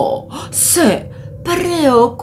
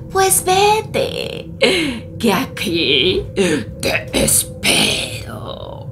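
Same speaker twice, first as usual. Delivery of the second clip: slow, sinking into a whisper; sly bear. Acted. Bear letting grandma go, slowly and slyly. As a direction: let it fade to a sly whisper.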